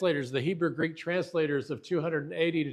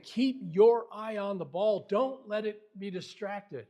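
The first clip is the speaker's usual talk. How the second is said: coach urging; 5 semitones higher than usual. Acted. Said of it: "It's like a coach saying".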